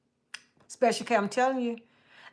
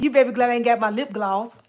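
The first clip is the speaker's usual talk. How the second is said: flirty laughing tease; 7 dB louder, faster than usual. Real, not acted. Flirty teasing a viewer.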